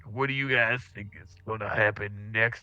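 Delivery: lightly voiced radio DJ, slow at times. DJ telling listeners to stay tuned, light DJ voice. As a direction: wrap the segment like a DJ. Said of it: "to the listeners and be like".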